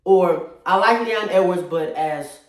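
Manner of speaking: echoey room. Real, not acted. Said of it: "why is it so echoey in here?".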